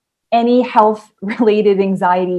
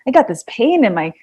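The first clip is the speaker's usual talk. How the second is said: mild grandma voice. Shown as a demonstration. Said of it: "try to make it in a booby".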